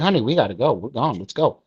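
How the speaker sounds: a mild, matter-of-fact, unbothered tone; said with normality. Retold or imitated. A man calmly tells his girlfriend they have to leave the theater, nonchalant. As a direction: keep it casual, as if nothing is wrong. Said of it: "I said it with normality".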